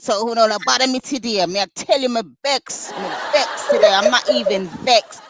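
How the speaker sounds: playful Jamaican patois with laughter; laughing through a Jamaican accent. Pretend. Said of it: "may I bring out the patois chat".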